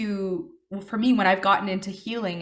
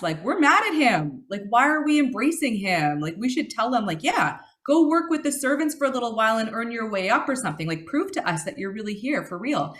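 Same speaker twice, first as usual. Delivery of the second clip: ticked-off brother; 3 dB louder than usual. Retold or imitated. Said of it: "he gets super ticked off 'cause he's like".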